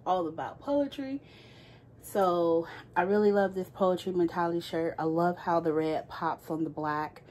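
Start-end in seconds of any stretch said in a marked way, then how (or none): 2.0-7.2 talking while holding breath. Real, not acted. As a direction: squeeze words out on a held breath. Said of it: "holding my breath here".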